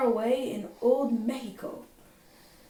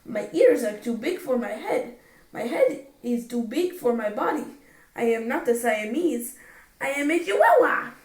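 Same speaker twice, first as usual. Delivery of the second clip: a light mock Spanish accent; 4 dB louder than usual. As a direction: play a kitten putting on a Spanish accent. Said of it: "using his very best Spanish accent".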